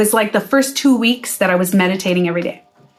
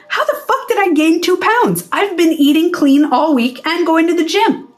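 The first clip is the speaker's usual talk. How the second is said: upset; 6 semitones higher than usual. Acted. Gym-goer upset at gaining weight, acting indignant. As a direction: act out exasperated disbelief, starting high. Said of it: "you start getting upset".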